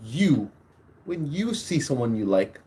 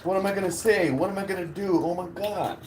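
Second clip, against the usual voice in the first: retold fretting; 5 semitones higher, 4 dB quieter than usual. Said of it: "the whole time I was like".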